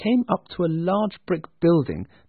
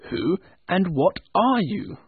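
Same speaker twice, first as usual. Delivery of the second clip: demanding; 5 semitones higher than usual. Acted. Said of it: "Scrooge demanded".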